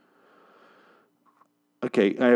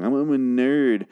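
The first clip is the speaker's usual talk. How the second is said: mocking voice; 4 semitones higher, 3 dB louder than usual. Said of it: "You say this in the song".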